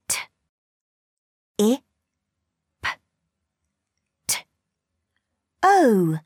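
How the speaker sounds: T, I, P, T, O as separate sounds; sounding out words. Shown as a demonstration. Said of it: "Blend the sounds".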